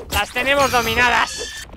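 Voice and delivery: savoring the win over the ants; drawn-out gloat. Real, not acted. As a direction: stretch it out like a taunt. Repeated slow sing-song.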